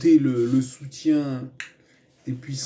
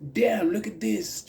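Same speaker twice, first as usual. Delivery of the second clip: much higher, impressed American exclamation; American tourist; 8 semitones higher, slower than usual. Pretend. Tourists spotting the fire at Notre-Dame, mock American. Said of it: "je vais pas le faire en V O V".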